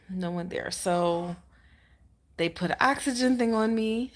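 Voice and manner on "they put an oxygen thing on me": laugh-cry through the words; half laughing, half crying, louder. Real, not acted. She laughs while telling of the oxygen mask.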